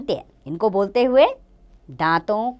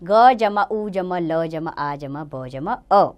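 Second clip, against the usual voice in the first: slow spelling out; slower than usual. Shown as a demonstration. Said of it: "गुलाब".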